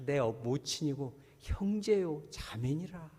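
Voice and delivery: slow, solemn voice of Jesus; Jesus speaking. Acted. Jesus to the crowd, slow and solemn. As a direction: declare it slowly and gravely. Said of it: "예수님 그렇게 얘기해요".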